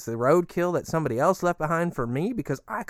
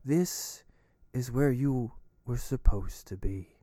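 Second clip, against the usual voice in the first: creepy cult voice; 3 semitones lower than usual. Acted. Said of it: "he talks like that, too".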